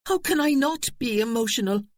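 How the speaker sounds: high, distressed outcry; crying out. A narrator's reading. Eve crying out to Aidan in despair. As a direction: cry out in despair. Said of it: "she cried".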